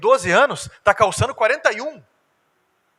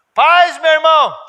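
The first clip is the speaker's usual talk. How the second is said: hammed-up greeting; 7 semitones higher, 11 dB louder, slower than usual. Greeting voiced loudly, slow.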